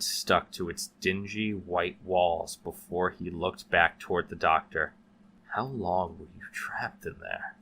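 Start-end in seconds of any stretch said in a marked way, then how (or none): 5.5-7.5 deadpan. Acted. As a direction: ask it without feeling. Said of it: "Wojak asked with a deadpan voice".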